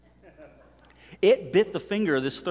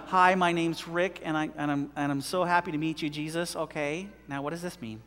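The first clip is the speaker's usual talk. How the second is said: timid mock prayer; 3 semitones lower, 5 dB quieter than usual. Mocking a lukewarm prayer, shy and softer. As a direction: mumble it like a shy first-timer meeting Jesus. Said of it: "She's not going".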